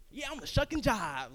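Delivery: sarcastic reply. Retold or imitated. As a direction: sarcastically play along. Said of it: "I'm like".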